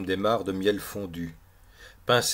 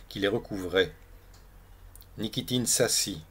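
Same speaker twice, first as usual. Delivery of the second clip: measured, projected read-aloud with clear pauses; literary story narration. A narrator's reading. Reprend la lecture du récit. (lecture littéraire à voix haute)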